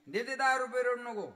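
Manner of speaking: high, loud mother promising money; loud motherly "don't cry"; mother soothing. Retold or imitated. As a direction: hush the child like a mother. Mother voiced in story.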